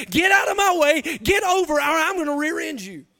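mildly heated, impatient driver's outburst; frustrated driver. Retold or imitated. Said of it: "But man, I get frustrated".

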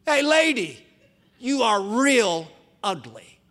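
high, loud squawky hail, then a slow jeer; drawn-out mocking bird voice; arrogant parrot. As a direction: taunt slowly like a cocky parrot. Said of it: "in all of his arrogance".

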